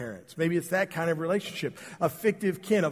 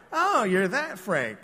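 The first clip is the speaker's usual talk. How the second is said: suspicious recognition; 4 semitones higher, slower than usual. Retold or imitated. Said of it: "you always gotta kinda wonder".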